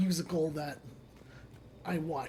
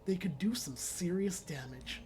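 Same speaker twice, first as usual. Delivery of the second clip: whispering; 7 dB quieter than usual. Real, not acted. Whispered intel.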